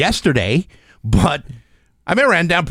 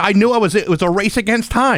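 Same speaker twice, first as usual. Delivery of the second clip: out of breath, still winded; words squeezed between breaths; gasping between phrases. Real, not acted. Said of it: "I'm all out of breath".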